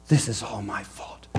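soft, low murmured self-blame; quiet grieving Jacob. Acted. Jacob blaming himself, soft and low. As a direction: mutter the blame under the breath. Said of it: "walking around blaming himself".

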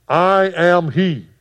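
loud, slow, weighty declaration; big bad words. Jesus answering the soldiers who came for him, loud and slow. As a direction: lay down each word slowly and loudly. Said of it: "big bad words right here".

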